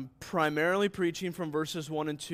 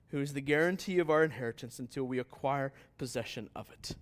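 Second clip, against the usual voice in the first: scripture reading. Real, not acted. Reads scripture aloud to congregation.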